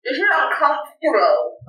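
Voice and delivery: talking around a phone in the mouth; muffled, mouth stuffed with a phone. Real, not acted. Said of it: "put something in your mouth and talk".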